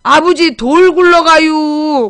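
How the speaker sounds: very slow Chungcheong drawl; mock slow-talking Chungcheong dialect; Chungcheong joke voice. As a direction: imitate an unhurried Chungcheong speaker, stretching the words. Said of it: "옛날부터 그런 농담이 있었잖아".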